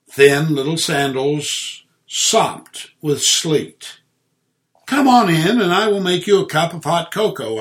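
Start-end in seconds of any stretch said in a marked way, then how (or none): 4.9-7.6 quick, bright-toned welcome; a touch of cheer, fast; chiming. Acted. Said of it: "I chimed".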